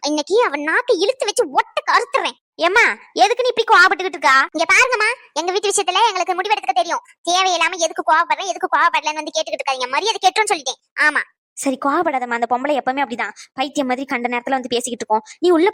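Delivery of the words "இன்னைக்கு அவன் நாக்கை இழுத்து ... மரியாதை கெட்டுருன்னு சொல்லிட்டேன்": angry. Acted. Women quarrel at wedding hall.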